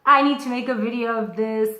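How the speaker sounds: excited outburst, retold. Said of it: "I was so excited".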